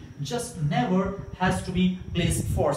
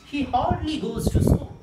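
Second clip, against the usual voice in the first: higher, louder model sentence; teaching tone; 6 semitones higher, 3 dB louder than usual. Shown as a demonstration. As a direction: model "hardly" clearly for the class. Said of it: "This is the tone you would speak".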